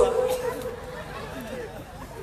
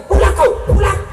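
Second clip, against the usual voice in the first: higher, louder laughing command to come home; mock shouted order; 8 semitones higher, 5 dB louder than usual. Preacher imitates a wife yelling at her husband to come home. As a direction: bark it like a bossy wife, half laughing.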